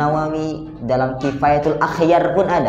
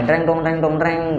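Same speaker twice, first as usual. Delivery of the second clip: mild spoken guitar strum; rhythmic mock guitar noise; imitated guitar strumming. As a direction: mimic strummed chords in syllables. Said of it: "Main gitar".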